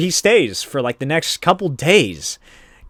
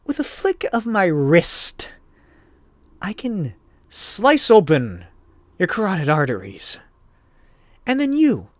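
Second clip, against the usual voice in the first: menacing villainess; 10 semitones higher than usual. Retold or imitated. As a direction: savour each threat like a gleeful killer. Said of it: "and she's like".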